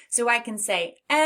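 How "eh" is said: long, held "eh"; stretched vowel. Shown as a demonstration. Teacher shows a vowel can stretch, holding "eh". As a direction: hold the "eh" as long as your breath lasts. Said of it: "stretch it and stretch it".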